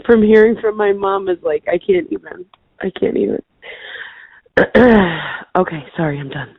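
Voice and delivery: choked up, trailing to a whisper; crying while driving. Real, not acted. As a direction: voice breaking into tears. Overwhelmed by thoughts of late mom.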